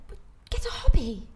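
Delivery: mock his helpful suggestion through giggles; a touch of the husband's cheerful fix-it voice; laughing impression of husband. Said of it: "And Rami's like".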